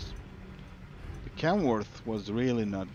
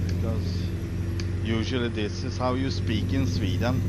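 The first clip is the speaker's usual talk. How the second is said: put-on a light, playful Swedish accent, pitched up; lightly hammed Swedish accent. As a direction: talk like a Swede as a joke. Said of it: "I better talk like this".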